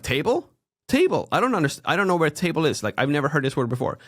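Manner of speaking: high, incredulous echo of a word; mock bafflement. Listener hearing a nonsense country name, high mock bafflement. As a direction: play a listener lost at an unknown word. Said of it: "And I'm like".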